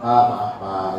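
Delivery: low, soft, deferential apology; polite apology. Shown as a demonstration. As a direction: excuse yourself gently, voice trailing down. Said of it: "nggak ada salahnya kamu bilang".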